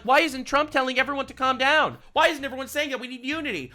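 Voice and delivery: high mocking voice of the left; mocking whiny leftist. Streamer mocking leftist critics in a high whiny voice. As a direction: mimic the complainers in a whiny pitch. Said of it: "Everyone on the left is like".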